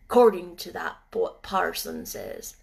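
put-on gruff old gardener. Ben speaks.

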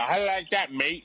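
put-on lightly done British accent, taunting; a hint of a British accent showing off; mock British accent, cocky. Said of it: "that British accent".

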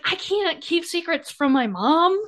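high, slow mock protest; retold protest. Acts out character's defensive reply.

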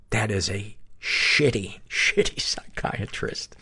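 slow, dissolving into laughter; laughing. Real, not acted. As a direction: laugh through the words. Laughs while calling it shitty.

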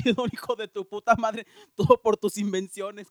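mock rant. Cursing the line inventor.

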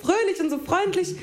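curious eager asking. Retold or imitated. Acting out curious questioning.

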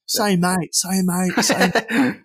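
pestering Americans. Retold or imitated. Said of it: "remember over in the States, it's just like".

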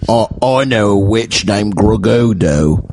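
lightly put-on British voice; mock British accent. Host improvising nonsense, mock British accent. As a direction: say it as a daft Brit. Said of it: "do a British accent".

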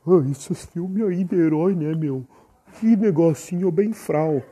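lightly mocking, scornful of a hero film; imitating his old dismissive self. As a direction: brush it off with mild scorn. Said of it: "e aí eu falei".

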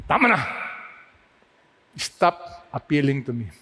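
God cutting Moses off; stern God. Acted. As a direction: put a final stop to the pleading. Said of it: "I do not know the tone of God's voice".

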